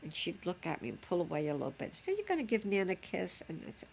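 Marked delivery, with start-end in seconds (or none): 1.9-3.4 coaxing grandma. Retold or imitated. Coaxing baby granddaughter for a kiss.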